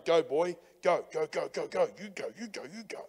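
Jesus nudging you along, easy and light; voicing Jesus. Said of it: "Jesus on my shoulder going".

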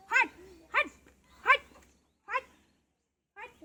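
হোয়াইট said the British way, clipped final t; British accent. Shown as a demonstration. Teaching kids the British হোয়াইট, British accent. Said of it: "British অ্যাকসেন্টে বলে".

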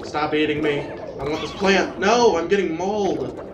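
distressed. Real, not acted. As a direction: protest loudly while being mauled. Being eaten by plant creature.

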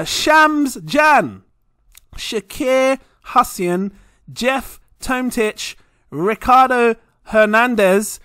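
reading names slowly and deliberately; slowed-down reading. Real, not acted. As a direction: stretch every name out, tired of the list. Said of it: "you all slowed me down".

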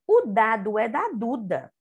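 O dado é da Duda read in one smooth flow; reading without stopping. Shown as a demonstration. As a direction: read it straight through, no pauses. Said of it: "a tia Luna vai ler, sem parar". (leitura corrida, sem parar)

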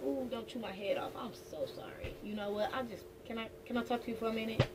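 hushed, nervous apologizing; timid soft apology. Retold or imitated. Ex-partner nervously approaching to apologize, hushed and timid. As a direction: tiptoe in with a hushed sorry. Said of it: "This is more like".

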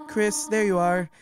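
sweet, doting mom voice; motherly game character voice. Acted.

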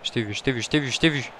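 normal talking voice

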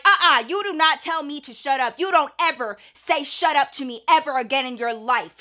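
imitating a mom who has lost her composure; losing composure. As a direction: act out an outraged mom telling someone off. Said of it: "where my mom lost her composure".

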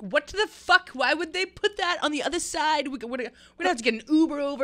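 high, loud, rushing panic; panicked outburst. Retold or imitated. Friends at empty station panicking about the tracks. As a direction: freak out at the wrong platform.

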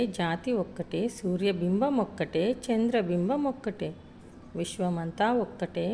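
lightly chanted poem, each line ending on ఒక్కటే; poem recital. Acted. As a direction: recite it like a school song. ఇక్కడ ఒక గేయం ఇచ్చాడు. (గేయంలా రాగంతో చదవడం)

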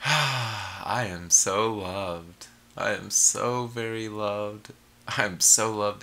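slow, sighing self-love affirmation; blissful affirmation. Shown as a demonstration. Repeating affirmations to viewers, slow and blissful. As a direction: let it out slowly, basking in it.

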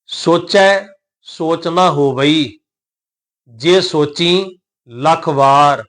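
slow recitation with drawn-out vowels; scripture recitation. Shown as a demonstration. Teacher models the verse for learners, slow recitation. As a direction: recite phrase by phrase, stretching the endings.

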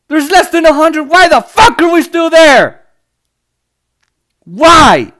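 slow, loud furious demand; angry shout. Real, not acted. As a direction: hammer the question home in disbelief. Ranting at endless war.

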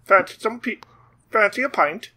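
badly faked Australian accent; mock Australian accent. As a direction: offer a pint in a bad Aussie accent. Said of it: "You think that's an Australian word?".

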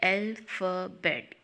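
"अल्फ़ाबेट" in three separate pieces; split into syllables. Shown as a demonstration. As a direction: break "अल्फ़ाबेट" into al, pha, bet. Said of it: "आवाज़ों के तीन टुकड़े". ("अल्फ़ाबेट" तीन टुकड़ों में अलग-अलग)

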